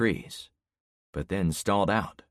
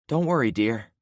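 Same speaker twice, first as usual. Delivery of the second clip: soothing mother; 5 semitones higher, 4 dB louder than usual. Acted. Mother soothes frightened child.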